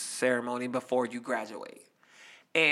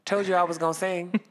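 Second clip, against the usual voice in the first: gloating told-you-so; smug victory line; 5 semitones higher, 3 dB louder than usual. Retold or imitated. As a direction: rub it in the principal's face. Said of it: "I said".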